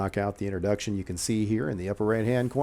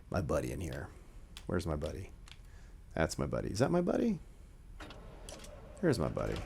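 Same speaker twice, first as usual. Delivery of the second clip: calling a dog; 5 semitones lower, 7 dB quieter, faster than usual. Acted. Looking for his buddy.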